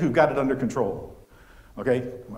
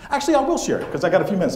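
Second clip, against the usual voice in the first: jumps up high and louder, deciding on the spot; sudden change of mind; 4 semitones higher, 4 dB louder, faster than usual. Real, not acted. Speaker decides to tell the crying story after all, eager. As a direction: suddenly go for it, higher.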